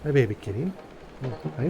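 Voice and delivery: high cooing greeting. Real, not acted. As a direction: coo at the kitten. Greeting a kitten.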